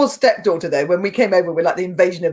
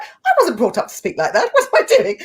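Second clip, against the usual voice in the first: mock self-reproach; 11 semitones higher than usual. Acts out scolding herself over accent.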